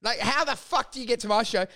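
high exasperated outburst. Retold or imitated. Comedian to rude audience member, exasperated disbelief. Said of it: "I'm like".

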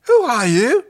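high, loud alien demand; echoing alien voices. Acted. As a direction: call out as several alien voices at once. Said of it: "The Zygal's voices echoed round Crichton".

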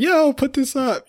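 high whiny nagging wife voice; whiny ex impression. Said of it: "your ex-wife was like".

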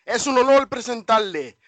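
booming Spanish ring announcer, high and loud; lucha libre announcer. Pretend. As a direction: stretch out the name like a ring intro. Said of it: "why don't you tell them who it is?".

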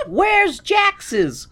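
high mock voice. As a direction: ask it like a chirpy kid. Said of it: "All the Newsies are like".

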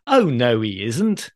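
lightly sing-song panto denial; mild stage contradiction, rising at the end; panto hero responding. Acted. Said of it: "To which Jack or Aladdin or whoever responds".

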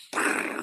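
mouth-made thump and crackling burst; imitated mortar firework. Asking which fireworks they mean, imitated mortar boom. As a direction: imitate a big mortar going off. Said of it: "like, the big one".

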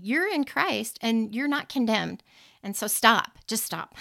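God's gentle but firm rebuke; firm loving command. Retold or imitated. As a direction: say it like a firm reminder to stop, rising to the loudest on stop. Quoting God's firm reminder.

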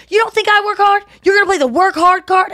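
mock-offended demand; indignant Donnell. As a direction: Donnell offended at Nikki's excuse. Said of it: "And he goes".

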